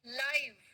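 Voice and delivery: लाइव with an "eye" vowel; diphthong live. Shown as a demonstration. Teacher drilling the third word, लाइव with "eye" vowel. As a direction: model लाइव clearly, rhyming with "five". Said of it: "सभी बच्चे मेरे साथ में".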